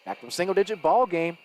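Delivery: lively basketball commentary; live play-by-play. Real, not acted. Commentator following a drive to a foul, live play-by-play. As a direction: call the action as it unfolds.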